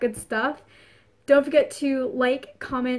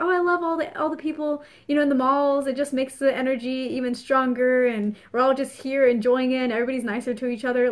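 cheery happy person; 2 semitones higher than usual. Retold or imitated. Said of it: "somebody who's happy is gonna be like".

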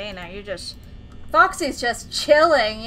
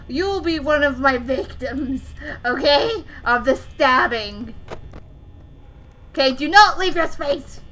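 playful scolding of Foxy, not truly angry; mock threats. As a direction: scold it like a naughty pet with a laugh behind it. Threatening animatronic in game.

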